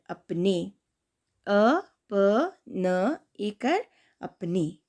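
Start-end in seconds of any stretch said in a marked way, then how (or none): 1.5-3.9 slow syllable spelling. Shown as a demonstration. Teacher repeating the spelling slowly for kids. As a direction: spell each letter clearly again. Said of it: "अब दूसरा शब्द है".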